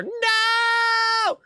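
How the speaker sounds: sudden high shouted no; a real shouted no; loud shout. Real, not acted. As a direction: yell it in outrage. Streamer shouts at game choice.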